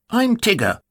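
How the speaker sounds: high, bouncy Tigger; bright bouncing introduction. A narrator's reading.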